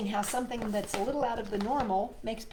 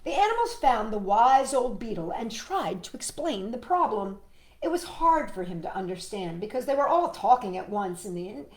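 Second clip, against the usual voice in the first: animated read-aloud slowing to a hush; story narration; 3 semitones higher, 5 dB louder than usual. Acted. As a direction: lead the listener toward a surprise. Reads picture book to child.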